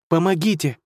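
high cry for help; shout for help. Acted. Girl calls for help by the crash, shouting. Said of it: "закричала она, что есть сил".

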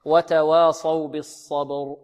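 slow, measured tajweed reading; recitation with pause. Shown as a demonstration. Teacher shows stopping at verse ends, slow measured recitation. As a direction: recite slowly, stopping at each verse end. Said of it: "ولنا أن نقف هنا".

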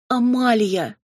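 high, loud cry of a name; desperate call. A narrator's reading. Robin calling to her furious cousin, desperate cry. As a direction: call out pleadingly. Calls after angry cousin.

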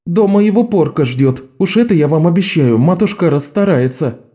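put-on a street girl assuring the judge; Bet's voice. A narrator's reading. Bet voiced in story.

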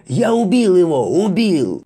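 high, loud, manic triumphant scream; frenzied yell. Acted. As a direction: shriek like a madman. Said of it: "бесновато завопил кто-то".

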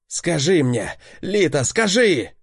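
savage shout. A narrator's reading. Dex grips Lita's wrist and shouts at her savagely. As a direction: bark it at her like a beast. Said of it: "закричал озверело".

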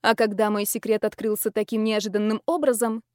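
plain reading voice

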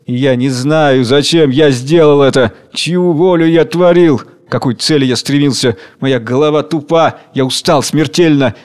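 weary strength, heavy and declamatory; dry, strong voice. Acted. Worker complains to King Hunger in a dry, strong voice. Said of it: "говорит сухим, сильным голосом, словно идущим от какой-то подземной глубины".

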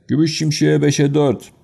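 track announcer call. Acted. Race announcer calling odds to the crowd, ringing call. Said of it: "diye bir ses geldi".

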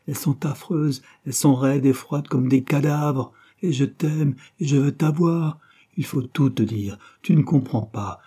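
put-on a young woman begging to be loved; passionate lover. Christine pleads with Claude, high and loud.

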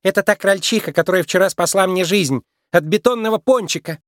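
high, urgent recognition; excited cry. A narrator's reading. Daughter recognises her rescuer, excitedly calling out. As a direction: burst out in the bride's high voice. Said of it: "закричала Фру-Фру".

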